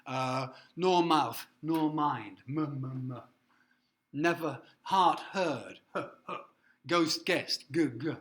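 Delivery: nor, mouth, mind, heart, heard, ghost, guessed said slowly with each first sound hit hard; slow, loud alliteration drill; stressing alliteration. Shown as a demonstration. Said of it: "S, S, S".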